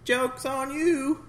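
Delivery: slow, high taunting gloat; gloating villain. Retold or imitated. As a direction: draw out the gloat. Mocking movie villain.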